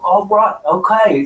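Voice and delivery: put-on English accent; mock an amateur English accent. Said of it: "playing with the English accent".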